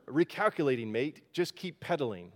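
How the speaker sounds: lightly imitated Australian sat-nav; mild mock-Aussie GPS voice; Aussie accent. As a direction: quote it with a hint of Australian. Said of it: "this heavy Aussie accent".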